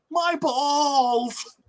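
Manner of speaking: mock high cry of pain; high-pitched pained yelp. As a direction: voice leaps way up. Retelling man hit in groin.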